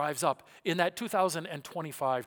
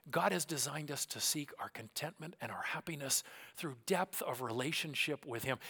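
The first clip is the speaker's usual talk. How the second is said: whispered restatement; 6 dB quieter than usual. Real, not acted. Restating key point softly.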